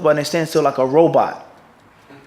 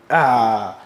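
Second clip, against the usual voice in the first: a low mock sigh of pleasure at perfect meat; satisfied ah; 6 semitones lower than usual. Shown as a demonstration. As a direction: sigh like tasting it just right. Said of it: "You gotta do the sound effects".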